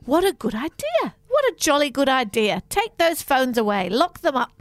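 a hint of jolly storybook primness; lightly jolly old-fashioned chirp; Enid Blyton voice. Hosts mocking their own advice, a touch of Enid Blyton jolliness. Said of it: "like we're in an Enid Blyton novel".

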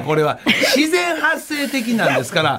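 trying not to laugh. Real, not acted. Host protests while laughing.

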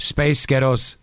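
mock Scottish via American vowels; American accent meant as Scottish. Shown as a demonstration. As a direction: Space Ghettos in American to sound Scottish. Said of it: "I'm gonna say Space Ghettos".

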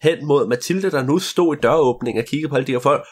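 usual speaking voice

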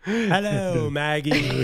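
high, put-on Perloff voice; Perloff impression. Mocking Perloff greeting Maggie, high put-on voice. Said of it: "That was Furloff's accent".

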